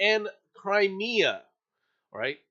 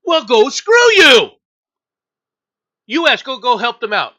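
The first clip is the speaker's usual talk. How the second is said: furious; 2 semitones higher, 9 dB louder than usual. Real, not acted. Angry rant at Europeans.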